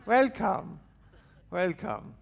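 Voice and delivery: high, comic Indian accent. Shown as a demonstration. Speaker showing the crowd his party trick, Indian accent. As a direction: greet in a put-on Indian accent. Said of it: "it's my Indian, um, accent".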